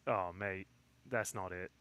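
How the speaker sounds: light mock Australian accent; understated put-on Aussie accent. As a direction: imitate an Australian friend, unimpressed. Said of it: "hear my Australian, he'd be like".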